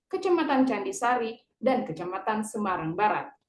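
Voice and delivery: steady formal newscaster delivery; news read. Acted. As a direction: read the bulletin like an anchor. Student reads news bulletin.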